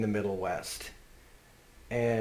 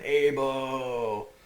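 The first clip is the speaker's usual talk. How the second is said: yelling for son; 3 semitones higher than usual. Retold or imitated. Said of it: "he's yelling for his son".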